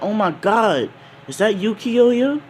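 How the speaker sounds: high, excited woman's voice; Makino's surprise. Acted. Barmaid spotting her grown-up friend, high and delighted.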